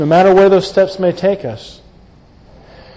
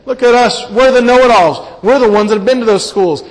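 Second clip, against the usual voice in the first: higher, puffed-up boasting on "We're"; smug know-it-all Pharisees; 4 semitones higher than usual. Retold or imitated. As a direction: brag like a self-important scholar, leaning on "We're". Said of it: "What are they saying?".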